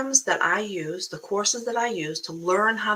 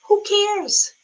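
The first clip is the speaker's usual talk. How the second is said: loud, high, falling "who cares"; emphatic dismissal; 13 semitones higher, 7 dB louder than usual. Real, not acted. Coach brushing off the viewer's excuses, loud and dismissive. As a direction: burst out dismissively.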